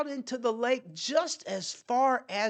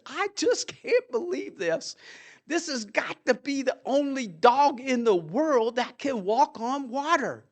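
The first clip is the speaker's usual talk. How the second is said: put-on happy excited boy; 2 semitones higher than usual. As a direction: sound amazed, can't believe it. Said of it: "The boy inside was so happy and excited".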